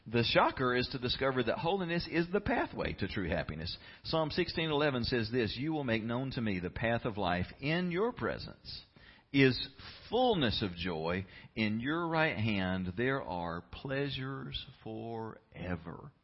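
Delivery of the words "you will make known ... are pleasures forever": slow, measured verse recitation; scripture reading. Real, not acted. Preacher reading a psalm to church, slow scripture recitation. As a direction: draw the verse out phrase by phrase.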